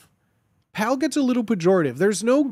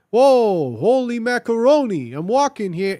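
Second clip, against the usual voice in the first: higher, hammed-up Italian-American exclamation; mock Italian accent; 4 semitones higher, 4 dB louder than usual. Shown as a demonstration. Streamer mocking lazy catchphrases, mock Italian accent. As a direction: open big in a cartoonish Italian accent. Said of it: "saying anything with an Italian accent".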